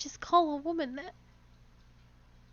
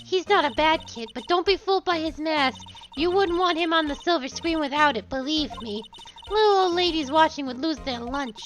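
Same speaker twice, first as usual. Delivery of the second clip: put-on old woman voice. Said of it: "I have to do an old woman voice".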